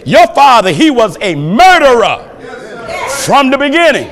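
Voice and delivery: rising to a shout on the scripture. Real, not acted. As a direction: build the verse up to a shout. Preacher hammers the scripture line.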